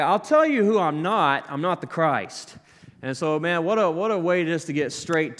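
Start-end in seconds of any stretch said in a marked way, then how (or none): 0.0-2.6 John deflecting. Retold or imitated. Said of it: "He's like".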